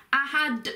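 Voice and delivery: "ahad" with a released, emphatic d; emphasized final D. Shown as a demonstration. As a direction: land firmly on the d of "ahad". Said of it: "put a bit more emphasis on it".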